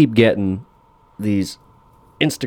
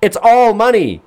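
much higher, slow, incredulous; exasperated disbelief; 12 semitones higher, 3 dB louder than usual. Real, not acted. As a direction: throw the line back in disbelief. Repeating Steve's line in disbelief.

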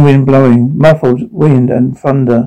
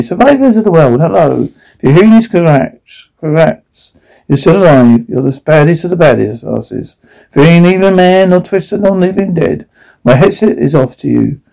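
lightly acted broadcaster, pitched up; broadcast address; 3 semitones higher than usual. Radio host greets the survivors of the world, mild broadcast voice. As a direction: address the listeners in a raised, lightly hammed-up voice.

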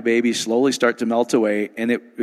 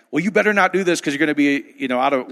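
mock preachy warning; 3 semitones higher than usual. Mocking religious warning voice.

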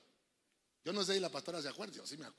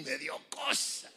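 Chapatín line; 2 semitones lower, slower than usual. Retold or imitated. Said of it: "Como dijo el Chapatín".

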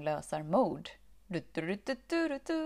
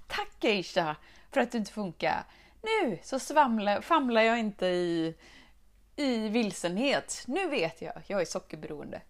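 louder, beaming thanks; super happy; 3 semitones higher, 6 dB louder than usual. Retold or imitated. Thanking the chocolate in her story, giddy and louder. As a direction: gush with giddy relief.

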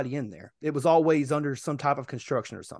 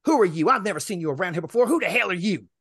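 mildly raised, mock-hostile demand; retold angry confrontation; 3 semitones higher, 4 dB louder than usual. Resident challenges delivery driver at her door, mock hostile. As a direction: imitate a woman challenging a stranger.

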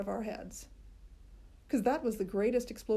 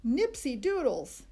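slow, loud proud shout; loud boy; 5 semitones higher, 4 dB louder, slower than usual. A narrator's reading. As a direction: announce it to the room. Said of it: "he said real loud".

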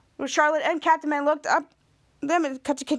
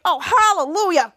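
relieved hallelujah through a laugh; laughing relief; 2 semitones higher, 5 dB louder than usual. Acted.

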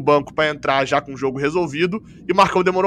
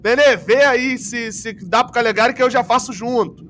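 higher-pitched calling out, mildly raised; imitated coach's call; 5 semitones higher than usual. Host acts out coach instructing a player, mock calling out. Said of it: "ele grita bem assim".

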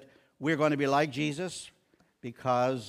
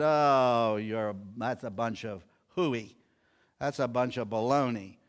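mocking dismissal; 3 semitones lower than usual. Athenians hearing Paul preach resurrection, mockingly dismissive. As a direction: imitate scoffers brushing off a preacher. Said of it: "And they mocked him".

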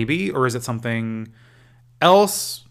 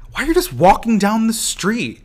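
surprised fan; 10 semitones higher, 5 dB louder than usual. Retold or imitated. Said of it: "I'm like".

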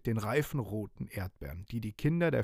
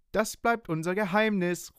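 a touch higher, playful call; mild group call; 8 semitones higher than usual. Acted. Children tell each other it stays secret, lightly calling. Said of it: "rufen die Fischerkinder".

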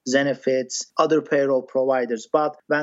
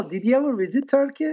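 whispered teasing question, quick and higher; playful whisper; 9 semitones higher, faster than usual. Real, not acted. Guest teasing the host about Turkey, quick whisper. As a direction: lean in and whisper it fast.

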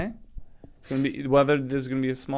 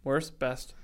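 Batman voice; 5 dB quieter than usual. Acted. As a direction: growl it like Batman, but softly. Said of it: "I hate this Batman voice thing".

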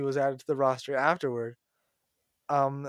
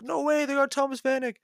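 retold disbelief; 11 semitones higher than usual. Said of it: "I was like".

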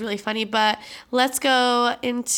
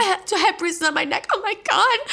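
a touch higher, shaken mom voice; mild mock panic; 8 semitones higher than usual. Mom after being choked, lightly imitated as rattled. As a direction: lightly play mom checking her neck in shock. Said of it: "She's like".

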